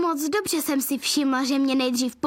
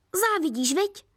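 unbothered; 5 semitones higher than usual. Acted. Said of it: "odpověděla nevzrušeně".

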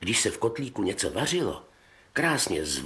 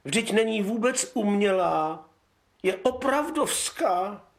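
high, slow, disgusted princess; spoiled princess; 11 semitones higher than usual. Acted. Spoiled princess complaining to her papa, high disgusted whine.

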